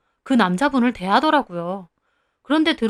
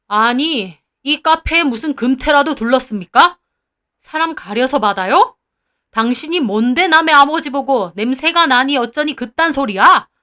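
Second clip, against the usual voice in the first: angry confrontation; 4 dB louder than usual. Acted. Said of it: "화가 나서 따지시더라고요".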